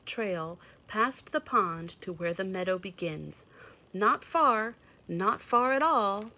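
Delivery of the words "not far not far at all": high animal voice. Acted. Animal voice answering.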